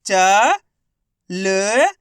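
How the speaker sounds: चा and ल each held loud and long, apart; isolated, stretched sounds for चा and ल; letter by letter. Shown as a demonstration. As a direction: sound out चा, pause, then ल. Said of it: "एक ही अक्षर का उच्चारण करना है".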